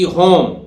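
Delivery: teacher modelling the word होम; model word home. Shown as a demonstration. Teacher showing students how to say होम. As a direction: say होम clearly as hōm, with the h sounded. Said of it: "जैसे ये है".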